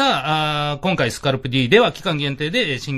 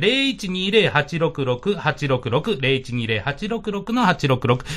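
slow number readout; 4 semitones lower, much slower than usual. Real, not acted. Reading out phone number slowly.

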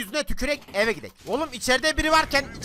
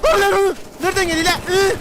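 high, loud excited yell; 7 semitones higher, 6 dB louder than usual. Real, not acted. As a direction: yell it out in the fight. Excited yelling in firefight.

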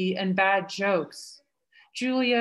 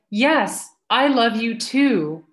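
louder, half-mock shouted reply to a child; retold scream; 2 semitones higher, 6 dB louder, slower than usual. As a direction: call it back loudly as a mother. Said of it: "And I scream".

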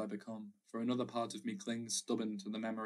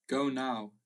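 a louder stern order to his wife; stern command; 3 semitones higher, 6 dB louder than usual. A narrator's reading. Stern father orders his wife out into the night, curt command. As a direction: bark the order at her. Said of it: "commanding my mother".

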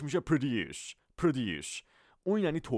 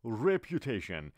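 "reputation" drawn out slowly, each syllable clear; slow spelled-out word; much slower than usual. Shown as a demonstration. Teacher slowly models "reputation" for students. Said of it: "لغت بعدی".

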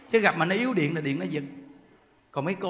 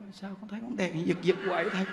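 soft worried question; 7 dB quieter than usual. Retold or imitated. Nun asks master about light.

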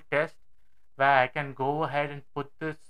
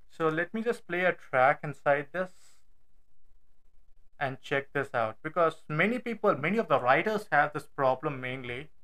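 muffled from inside a helmet; talking with a helmet on. Real, not acted. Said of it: "It would sound weird".

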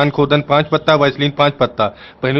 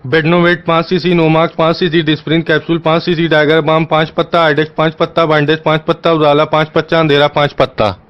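hurried dictation. Real, not acted. Caller reels off medicines to an exasperated shopkeeper, hurried. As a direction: rattle off the list without a break. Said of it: "मना कर रहा हूँ कि मैं आराम आराम से बोल".

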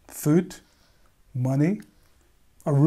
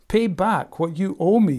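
a touch of a harsh demand, louder; 4 semitones higher, 5 dB louder than usual. Acted. The servant demands his debt from his fellow servant, mildly harsh. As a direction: lean on it like a creditor. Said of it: "he demanded".

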